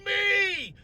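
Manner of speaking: very high, loud, drawn-out scream; screamed F-bomb. Retold or imitated. Doctor imitating patients under the needle, long pained scream. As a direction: howl it out, stretching each word in agony. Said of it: "They literally go F-bomb".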